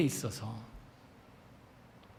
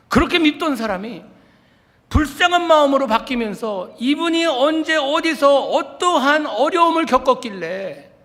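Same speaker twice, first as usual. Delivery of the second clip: impassioned climax; 9 semitones higher, 8 dB louder than usual. Real, not acted. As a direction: drive it home with full fervour. Repeated line, climax take.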